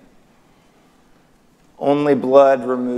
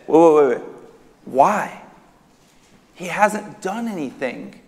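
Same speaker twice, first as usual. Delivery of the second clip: baffled protest; 3 semitones higher than usual. Acted. Pilate questioning the crowd, baffled protest. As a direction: plead the case in mild disbelief.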